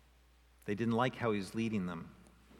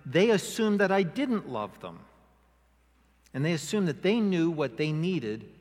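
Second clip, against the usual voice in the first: voicing God; 4 semitones higher, 6 dB louder than usual. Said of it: "it's like God saying".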